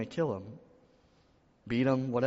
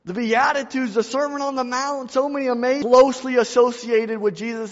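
much higher, louder preaching at its peak; full-force preaching; 12 semitones higher, 10 dB louder than usual. Acted. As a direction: drive it home to the church. Preaching climax about Peter.

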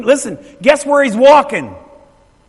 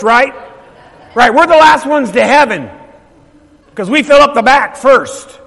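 ordinary delivery

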